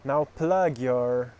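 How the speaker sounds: measured meditation guidance, phrase by phrase; slow, deliberate guiding voice, firmly projected; guided meditation. Acted. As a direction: lead a visualisation with long pauses. Leads a guided visualisation.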